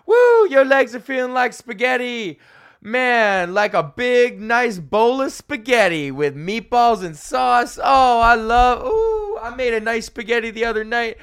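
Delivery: high, loud, gushing fitness instructor; Peloton instructor impression. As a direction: ham up a peppy instructor raving about spaghetti. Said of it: "They're always like".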